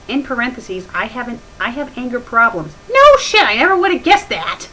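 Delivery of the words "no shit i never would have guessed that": sarcastic. Real, not acted. Sarcastic jab at the text.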